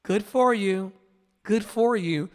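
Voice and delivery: mock congratulation; beautiful gowns energy. Imitating people who brush off his work, beautiful gowns energy. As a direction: imitate hollow, polite praise. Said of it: "people will pay beautiful gowns energy".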